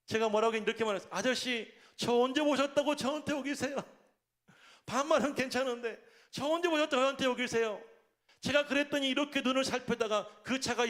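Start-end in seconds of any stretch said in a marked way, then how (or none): 1.1-7.8 higher-pitched, mildly indignant retelling; retold flustered protest. Pastor retelling his reply to a cursing driver, flustered protest. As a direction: protest as if caught off guard, still polite. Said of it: "제가 당황해가지고".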